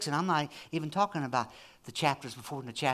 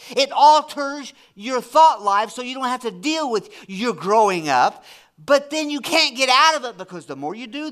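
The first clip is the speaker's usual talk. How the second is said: raised, emphatic preacher voice; impassioned preaching; 8 semitones higher, 8 dB louder than usual. Real, not acted. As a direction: preach it hard, punching key words. Preaches with force.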